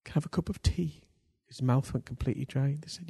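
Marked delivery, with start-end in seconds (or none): 0.0-1.0 lightly put-on polite English voice, pitched up; a hint of very English politeness; polite Englishman. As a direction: imitate a well-mannered English gentleman, lightly. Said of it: "He was an Englishman".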